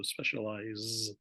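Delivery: "specialize" slowly, ending in a buzzed Z; Z sound demonstrated. Shown as a demonstration. Teacher showing how the S spelling sounds, "specialize" with a Z sound. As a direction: draw out "specialize" with a voiced z at the end. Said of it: "pronounce it with a Z sound".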